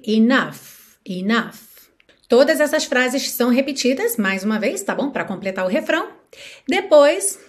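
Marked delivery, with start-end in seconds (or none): 0.1-1.9 "enough" ending in an F sound. Shown as a demonstration. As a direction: say "enough" as "ee-NUFF". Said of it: "esse G H vai ter som de F".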